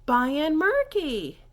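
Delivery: buy in murky slow, high and loud; slow French reply. Shown as a demonstration. Teacher drilling I'm fine thank you in French. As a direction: stretch out buy in murky clearly. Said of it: "So, Kava".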